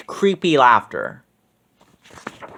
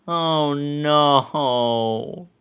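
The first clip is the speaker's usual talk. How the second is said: sad sigh. A narrator's reading. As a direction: let it fall, dejected. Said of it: "Mister Smalls said sadly".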